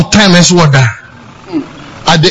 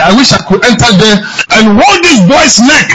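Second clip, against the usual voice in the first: indignant; 6 semitones higher than usual. Real, not acted. Preacher outraged at bad parenting.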